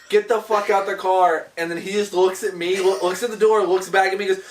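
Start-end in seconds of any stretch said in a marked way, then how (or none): 0.1-1.5 slow, mildly raised mock command; acted order. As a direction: retell an acted line, slightly projected and measured. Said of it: "I look at Leandro and I go".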